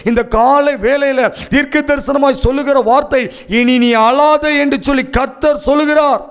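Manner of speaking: urgent, declaiming sermon voice; prophetic preaching. Real, not acted. Preacher gives the weeping a prophetic word, declaiming with urgency. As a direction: drive each phrase home like a prophecy.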